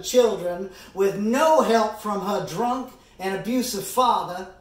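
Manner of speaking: emphatic, measured address to a jury; courtroom closing argument. Acted. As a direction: press each point home like a trial lawyer. Lawyer argues to jury.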